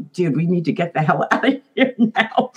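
mock panic through a laugh; half-laughing, hurry them out; laughing urgency. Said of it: "And I'm like".

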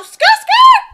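high loud skirt skirt screech; tyre screech imitation. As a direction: screech skirt skirt like squealing tyres. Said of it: "not even skirt".

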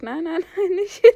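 high, loud panicked no; panicked shout. Real, not acted. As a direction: scream at him not to go there. Panicked warning as dad goes wrong.

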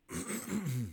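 raspy throat clearing. Real, not acted. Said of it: "Excuse me".

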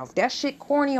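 normal talking voice

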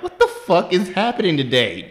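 high exclamation breaking into laughter; laughing disbelief. Retold or imitated. Teller recalling hands up at the waiter, laughing disbelief. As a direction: act exasperated while cracking up.

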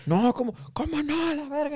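mucho más agudo, incrédulo y molesto; reclamo exaltado. Retold or imitated. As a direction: sube el tono, furioso. Compa se pone más bravo. (compa drogado insiste en el robo, exaltado y agudo)

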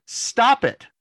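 high, loud yell; imitating a woman yelling at wrestlers; yelling stop. Fan in the front row yelling at wrestlers, high and loud. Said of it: "This woman was like".

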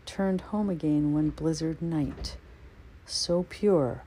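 slow, measured recital of a winter poem; reading a snow poem aloud to listeners, slow and measured; poetry reading. Acted. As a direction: linger on each image, unhurried. Reads poem in English.

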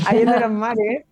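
playful pompous drawl with a laugh; mock-grand laughing. Real, not acted. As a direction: savour the archaic words with a laugh. Jokey archaic phrase, laughing.

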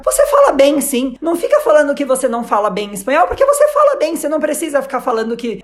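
insistent reprimand, acted out lightly; retold scolding. Attendant telling off the apologetic traveller about his Spanish, mock scolding. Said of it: "a moça me deu uma bronca".

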